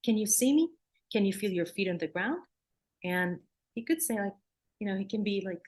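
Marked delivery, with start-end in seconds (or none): 0.0-2.4 gentle grounding voice. Shown as a demonstration. Therapist grounding a frozen child gently. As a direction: patiently bring the child back. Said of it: "So your voice, you see how my tone".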